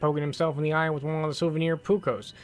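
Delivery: lightly voiced boss with a put-on accent; Elmo's accent. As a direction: read the note as the boss, a touch of accent. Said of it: "What was my accent for Elmo again?".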